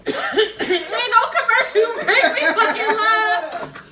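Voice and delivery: coughing, choking on spit. Real, not acted. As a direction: force the words out while choking. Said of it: "I'm choking on my damn spit".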